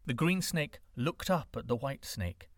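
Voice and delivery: plain reading voice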